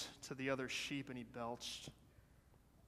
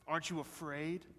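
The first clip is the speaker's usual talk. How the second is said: understated menacing question; a touch of a wolfish snarl. A narrator's reading. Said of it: "snarled the wolf".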